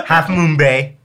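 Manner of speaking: laughing through the words; a burst of laughter carrying into the line. Real, not acted. Laughs before saying it.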